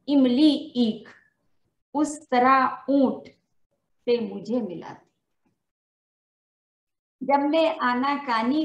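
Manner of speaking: measured, sing-song reading of a poem, lines repeated; poem recitation. Acted. Teacher reciting her poem at a Hindi Day event, rhythmic and measured. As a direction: recite each couplet to the audience, then repeat it.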